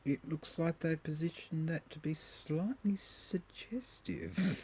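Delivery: slow, sly whisper; conspiratorial whisper. Real, not acted. Joking about a suggestive sandwich ad, whispering slyly. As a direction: let it slip as a cheeky secret. Remarking on a cheeky food ad.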